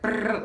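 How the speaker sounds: high trilled brrr; imitated gobbling noise. Friends eating all her food, mock gobbling noise.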